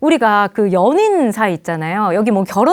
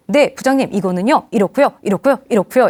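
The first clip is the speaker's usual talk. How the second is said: acted point-by-point explanation; even, orderly employee explanation; measured logical reply; 2 semitones lower than usual. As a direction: answer the boss reasonably, item by item. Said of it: "또박또박 이성적으로 논리적으로".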